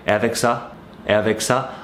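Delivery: "Et avec ça?" said flat, no rise at the end; flat shop question. Retold or imitated. Shopkeeper at the till to a customer, flat "Et avec ça?". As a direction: ask "Et avec ça?" like a bored cashier, not a question. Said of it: "doesn't even sound like a question".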